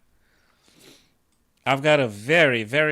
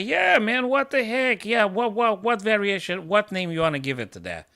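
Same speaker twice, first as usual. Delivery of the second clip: imitating FIDE staff; 7 semitones higher than usual. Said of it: "and they will say".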